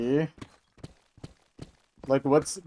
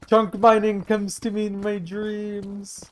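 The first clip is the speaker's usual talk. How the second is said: high, hammed-up fake Michigan accent; mocking a politician's exaggerated Michigan accent; mock Haley Stevens accent; 8 semitones higher than usual. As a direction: overdo a put-on Michigan accent, pitched up. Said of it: "nobody sounds like that from Michigan".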